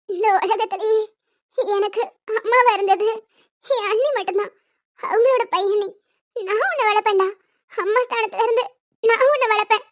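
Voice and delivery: put-on soft, tender promise to a baby; quiet and heartfelt; tender vow. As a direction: speak gently, as if to a sleeping child. Tender vow to sleeping baby nephew.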